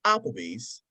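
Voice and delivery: "Applebee's" in British inflection, like a question. Shown as a demonstration. Showing friends the British way, "Applebee's" inflected like a question. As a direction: lilt "Applebee's" as if asking a question. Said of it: "inflection of the apple".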